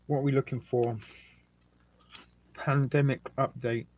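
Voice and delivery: talking through a mouthful; words round a bite of food; chewing while talking. Real, not acted. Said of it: "Sorry, I'm chewing".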